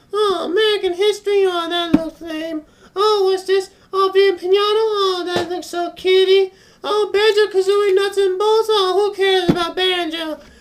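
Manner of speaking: tiny, very high-pitched little voice. Retelling a guy who commented on every game he picked up, high-pitched little voice. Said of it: "in this high pitched little voice".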